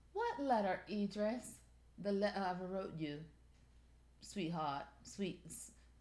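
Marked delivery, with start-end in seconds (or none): 2.0-5.7 attempted put-on British accent, quieter. Pretending a pillow is Idris Elba talking: attempted British accent as Idris Elba. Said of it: "they don't say the R sound either".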